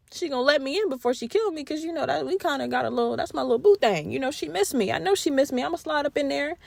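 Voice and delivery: hushed, quick self-talk; quiet cocky scheming. Acted. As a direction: mutter the plan to himself, fast. Stefan's cocky inner monologue.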